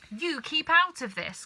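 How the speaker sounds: high, loud snap at his wife; cried out. A narrator's reading. Mister Cranky silencing his wife, loud sharp cry. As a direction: tell her off sharply. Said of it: "cried Mister Cranky".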